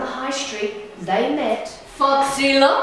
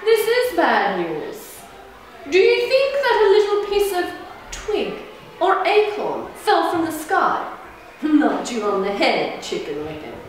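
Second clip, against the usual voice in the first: sly drawl; 4 semitones higher than usual. Acted. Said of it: "drawled Foxy Loxy".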